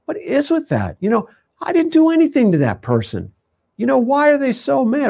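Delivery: imitating a puzzled, wronged driver; mock outrage at a rude stranger; indignant disbelief. Retelling indignant inner thoughts.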